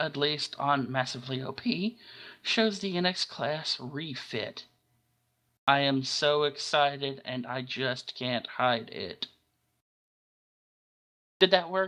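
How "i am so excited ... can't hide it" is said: deadpan monotone, dead flat, zero excitement. Joking about being excited over a class refit: deadpan Ben Stein impression. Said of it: "my best, um, Ben Stein impression there".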